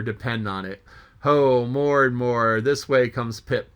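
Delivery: full, theatrical reading of a sea monologue; dramatic story reading. Acted. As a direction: read it like an old sailor muttering to himself. Reads Moby-Dick chapter aloud.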